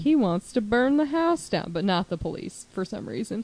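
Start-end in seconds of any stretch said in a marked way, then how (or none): 0.0-1.7 put-on southern accent. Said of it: "doing her with a southern accent".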